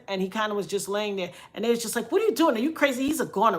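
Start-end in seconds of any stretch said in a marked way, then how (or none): 2.1-3.6 mock disbelief, scolding a colleague; incredulous scolding. Doctors object to her checking the patient, imitated incredulous scolding.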